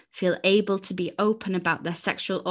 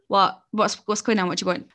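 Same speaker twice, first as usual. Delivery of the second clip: tired mum voice; faster than usual. Retold or imitated. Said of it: "this voice that she uses after work".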